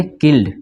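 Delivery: किल्ड in one syllable; no vowel before the D in किल्ड; silent E. Shown as a demonstration. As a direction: say किल्ड with L running straight into D. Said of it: "ई silent हो जाएगा".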